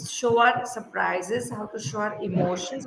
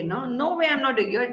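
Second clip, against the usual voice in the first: no way pushed as a firm statement; stress on no way; 2 semitones higher than usual. Shown as a demonstration. Teacher shows firm refusal with stress on no way. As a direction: lean on the words no way. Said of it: "We stress on no way".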